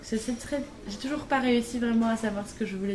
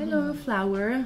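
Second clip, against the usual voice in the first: lilting café greeting, lightly imitated; imitated friendly welcome; 4 semitones higher, slower than usual. English café staff welcoming a customer, imitated friendly greeting. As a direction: greet a customer sweetly, pitched a bit higher. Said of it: "ils t'accueillent".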